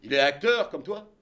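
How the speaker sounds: voix grave et posée de vieil homme; un vieux monsieur bonhomme, grave et lent; voix de Bertrand. Retold or imitated. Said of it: "il me dit". (imitation de Bertrand, voix grave et basse)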